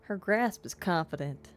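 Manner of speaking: put-on southern-accented game narration. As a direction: read the story with a touch of southern twang. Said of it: "we're going southern on this one".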